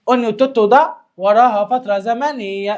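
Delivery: slow, stretched explanation; slow deliberate teaching voice; slow emphasis. Shown as a demonstration. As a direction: spell it out slowly for the class. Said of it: "repeats explanation slowly".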